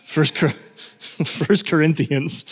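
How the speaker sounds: chuckling through a slip, slowing on the right name; amused self-correction. Real, not acted. Preacher correcting his Bible reference to congregation, chuckling. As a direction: laugh at your own mistake as you fix it. Laughing at own misnamed Bible book.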